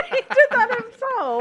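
laughing through the words. Real, not acted. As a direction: laugh it out, slowly. Friend finishes drink, laughing.

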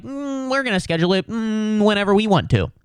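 high, fast, smug brush-off; mocking the NBA's scheduling, high and smug; smug mock league voice. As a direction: toss it off like a league suit who can't be touched. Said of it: "and so they're like".

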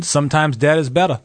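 put-on a light New England accent on a film quote; Fred Gwynne New England accent. Son quoting Pet Sematary to his parents, in a light New England accent. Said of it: "That's my best Fred Gwynn".

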